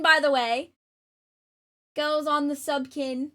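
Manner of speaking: playful mock English accent; amateur English accent. Streamer explaining the giveaway in a mock English accent. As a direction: keep up a rough English accent while chatting. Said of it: "ten-minute English accent".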